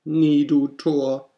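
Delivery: high, loud, slow raven croak. Acted. Raven answers the pleading narrator, croaking loud and slow. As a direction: drag out the croak. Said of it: "Sprach der Rabe".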